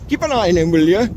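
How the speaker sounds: bad Geordie accent; lightly put-on Geordie accent. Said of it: "That's my terrible Geordie accent".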